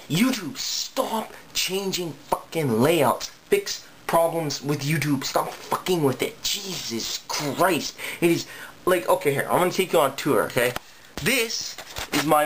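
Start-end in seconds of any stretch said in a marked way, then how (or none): 0.1-8.0 slow, drawn-out exasperation; fed-up plea, dragging each word; exasperated rant. Real, not acted. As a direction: stretch the words out in frustration. Ranting at YouTube's changes.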